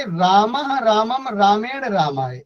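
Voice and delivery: measured demonstration of रामः रामम रामेण रामाय; model recitation. Shown as a demonstration. Teacher models singular forms for class repetition, measured recital. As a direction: recite the forms as one linked set for pupils to copy. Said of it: "पहले अगर हम लोग बोलेंगे".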